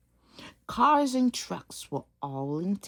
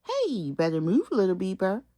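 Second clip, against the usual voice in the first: hollering; 4 dB louder than usual. Acted.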